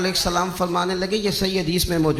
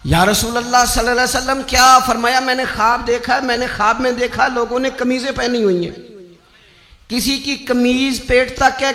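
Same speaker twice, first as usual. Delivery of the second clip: high, sustained preaching pitch; impassioned religious storytelling on a high line; fervent sermon narration; 6 semitones higher, 3 dB louder than usual. Real, not acted. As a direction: tell it in a raised, ringing pulpit voice.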